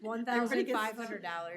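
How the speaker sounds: stuffy nasal cold voice. Real, not acted. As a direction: speak through a blocked nose. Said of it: "my nasally voice".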